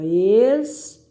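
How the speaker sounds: "Expansivo" as ex, pan, si, vo, long pauses between; separando sílabas. Shown as a demonstration. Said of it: "separe as sílabas dessas palavras". ("Expansivo" sílaba por sílaba, bem pausado)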